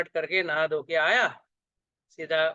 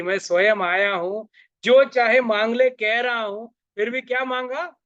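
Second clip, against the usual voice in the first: rising, higher and louder disbelief; exasperated God; 5 semitones higher, 5 dB louder than usual. Acted. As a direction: protest in acted exasperation. भगवान सिर पकड़कर झुंझलाते हैं. (झुंझलाहट भरे ऊँचे सुर में भगवान)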